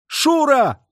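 high, loud call of the name; call choked with emotion. A narrator's reading. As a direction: cry out her name, choked up. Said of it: "сдавленный волнением оклик".

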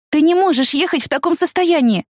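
high, urgent warning; alarmed plea. A narrator's reading. Woman stopping shocked friend driving, alarmed high plea. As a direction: stop him before he drives.

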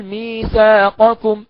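slow ميثاقكم, qaf clearly said; no assimilation. Shown as a demonstration. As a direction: keep the ق audible. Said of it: "يبقى نقول". (إظهار القاف)

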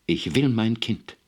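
laut, hoch und langsam gedehnt; schreiend. A narrator's reading. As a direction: jedes Wort mit Nachdruck herausrufen. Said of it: "Sie warf sich schreiend auf ihn". (verzweifelt fordernder Schrei)

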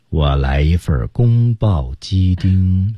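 very slow, drawn out order; absurdly slow ordering. Pretend. 老师开玩笑，点餐时一字一字慢慢说. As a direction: stretch every syllable like a leader's speech. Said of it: "如果你点餐这么慢的话".

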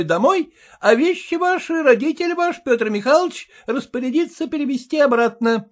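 high, pompous lecturing husband; voiced husband giving orders; officious husband. A narrator's reading. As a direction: insist on the law, self-important.

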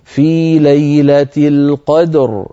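القدر recited slowly with a heavy, full ر at the stop; slow recitation, the final ر of القدر made thick; tajweed demo of tafkhim on القدر. Shown as a demonstration. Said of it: "فنفخمها".

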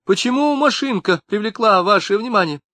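a fat tearful mother scolding the police; hammed-up indignant mother; shrill mother. A narrator's reading. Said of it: "крикнула".

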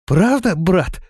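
высоко и громко от радости; воскликнуть, ликуя; радостный возглас. A narrator's reading. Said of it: "радостно воскликнул Рохля". (радостно воскликнув)

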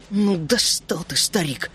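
slow, mild spiteful grumble; boy grumbling at the old gnome; spiteful mutter. Acted. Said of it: "злобно процедил я".

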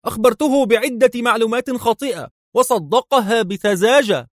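proud of fooling him; enthusiastic. A narrator's reading. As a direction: henchman excitedly reporting to his boss. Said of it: "يقول بحماس".

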